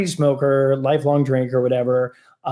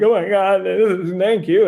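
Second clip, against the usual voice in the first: retold sobbing thanks; 6 semitones higher, 3 dB louder than usual. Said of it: "sobbing, ugly cry".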